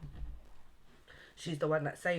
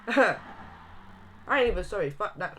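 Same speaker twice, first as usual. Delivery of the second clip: laughing; 4 semitones higher, 6 dB louder than usual. Real, not acted.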